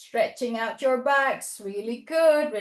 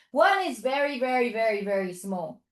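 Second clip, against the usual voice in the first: shrinking voice; 3 semitones lower than usual. Pretend. Hints at a tiny animal.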